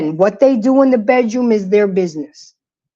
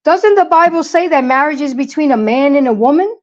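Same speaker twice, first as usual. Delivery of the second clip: imitated son; 5 semitones higher than usual. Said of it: "he turned to me and said".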